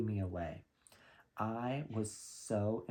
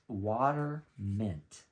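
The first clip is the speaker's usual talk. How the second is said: "Water mint" drawn out very slowly, each word lingered on; slow, lingering "Water mint"; slow savoring; 4 dB louder, much slower than usual. Shown as a demonstration. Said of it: "And the note".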